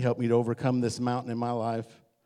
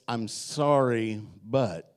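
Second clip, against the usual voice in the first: drawn-out fake apology; 3 semitones lower, 3 dB quieter, much slower than usual. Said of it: "apologies like this".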